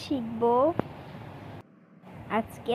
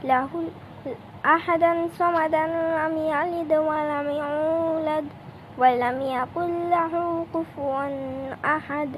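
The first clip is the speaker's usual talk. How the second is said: recited prayer. Acted.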